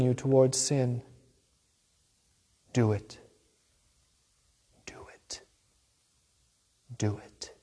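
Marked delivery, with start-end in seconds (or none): 2.7-3.2 hushed devilish urging, very soft; right in your ear. Acted. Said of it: "Does he appear as a whisper in your ear". 4.8-5.4 breathy devil whisper; right in your ear. Acted. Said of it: "Does he appear as a whisper in your ear". 7.0-7.5 soft tempting murmur, much quieter; right in your ear. Acted. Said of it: "Does he appear as a whisper in your ear".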